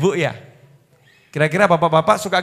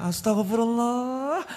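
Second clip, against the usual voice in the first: mock yell; 6 semitones higher, 6 dB quieter, slower than usual. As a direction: imitate a nagging wife's shrieked prayer. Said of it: "ibu teriak". (pura-pura teriak istigfar)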